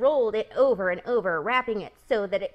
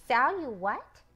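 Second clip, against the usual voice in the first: surprised cry; 3 semitones higher than usual. Acted. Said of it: "he cried".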